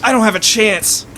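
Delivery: high, pleading mock despair; tearful. Weeping opponent handed an axe, tearful and helpless. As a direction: raise the pitch and plead helplessly. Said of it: "tears streaming down his cheeks".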